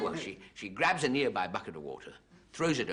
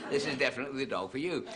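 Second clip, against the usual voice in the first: rushed; 5 semitones higher, faster than usual. Shown as a demonstration. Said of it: "I did try to say that quickly".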